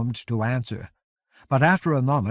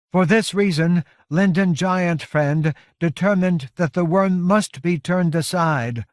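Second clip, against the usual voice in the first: raised, loud, worn giantess voice; exhausted giant leader; 6 semitones higher, 6 dB louder than usual. A narrator's reading. Iron Hand explaining the worm to Covenant, exhausted. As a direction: push the words out through exhaustion. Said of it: "Exhaustion abraded the Iron Hand's voice".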